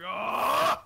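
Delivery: loud acted "oh"; mock outcry. Player showing friends own reaction, mock outcry. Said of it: "I'm like".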